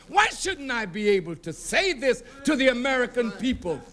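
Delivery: shouted rebuke with rising anger; preacher scolding the nation for its silence; fiery preaching. Acted. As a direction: demand answers from the crowd. Rebuking the audience.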